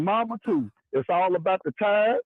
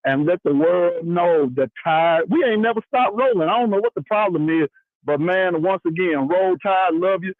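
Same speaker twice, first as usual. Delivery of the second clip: loud call-in shout; 6 dB louder than usual. Real, not acted. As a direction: shout it down the phone line to the host. Caller shouting into the phone.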